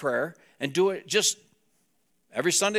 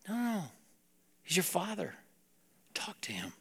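soft, raised-pitch coaxing; gentle correction; 9 dB quieter than usual. Retold or imitated. Mentor reassuring young disciple, gentle correction. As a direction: correct him kindly and quietly.

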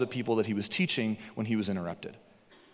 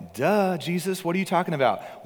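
mock duh; 5 semitones higher than usual. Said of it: "there's almost an implied".

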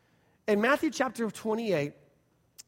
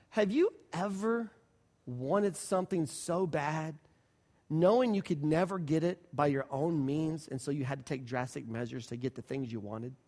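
mock dramatic plea; 4 semitones lower, 3 dB quieter than usual. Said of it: "She says this".

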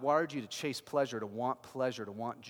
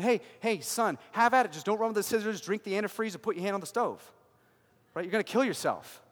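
caring father; 4 semitones higher, 6 dB louder, faster than usual. Acted. Good father warns his son.

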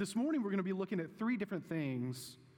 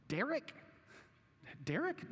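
put-on broad singsong kids theatre; 6 semitones higher than usual. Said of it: "my children asked me at lunch".

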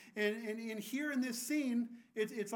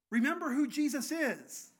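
emphatic; 4 semitones higher, 5 dB louder than usual. Retold or imitated. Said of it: "this heavenly elder is saying".

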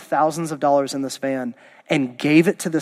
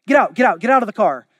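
louder, higher excited urging; eager retold command; 4 semitones higher, 4 dB louder, faster than usual. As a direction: push the driver out, playfully insistent. Bob orders the driver out.

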